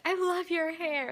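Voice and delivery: high, slow, drawn-out gush; stretched-out high-pitched praise; retold gushing compliment. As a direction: imitate her cooing over it up high.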